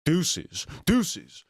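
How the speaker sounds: loud, high playful farewell; high sing-song sign-off. Real, not acted. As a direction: squeal it out like a goodbye call.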